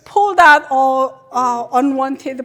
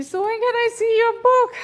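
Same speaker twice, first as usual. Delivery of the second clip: higher, eager question; imitating eager fans; 9 semitones higher, faster than usual. Fans asking the speaker about her book, higher and eager. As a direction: ask it like a curious fan. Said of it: "they always ask me".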